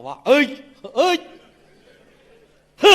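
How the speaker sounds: delighted rustic exclamation; amazed villager. Acted. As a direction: gasp out a rustic wow. Villager amazed at mirror, louder.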